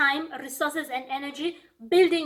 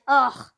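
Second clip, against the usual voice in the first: imitated groan of disgust; mock disgusted ugh; 4 dB louder than usual. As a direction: groan "ugh" like someone put off. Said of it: "some people go like".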